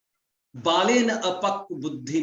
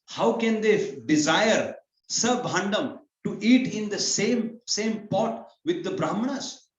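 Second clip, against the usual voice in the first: put-on a touch of a higher, indignant young brahmin, slowing down; indignant brahmin boy; 4 semitones higher, 3 dB louder than usual. Brahmin boy scorns kshatriyas eating with brahmanas, lightly indignant. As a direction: lightly voice the boy's outrage at the kings.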